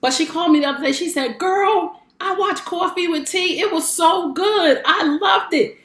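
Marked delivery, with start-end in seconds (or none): 1.4-5.8 higher, bubbly retelling of her sister's praise; lightly voiced gushing big sister; imitating excited sister. Big sister raving about the show on the phone, mild excited imitation.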